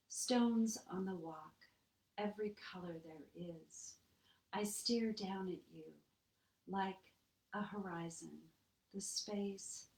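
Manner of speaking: measured poetry recital with pauses between phrases; unhurried verse reading, pausing often; poem reading. Acted. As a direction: read it line by line, letting each image land. Reads Marilyn's poem aloud.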